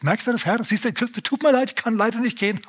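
höher, gespielt weinerliche Ausrede; jammernder Mose. Retold or imitated. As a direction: den Herrn höher und scheinheilig abwimmeln. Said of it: "weil Mose sagt". (Mose drückt sich höher und jammernd vor dem Auftrag)

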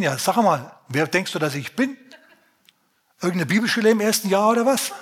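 an angel losing patience with a doubter; scolding angel. Retold or imitated. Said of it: "der Engel schimpft".

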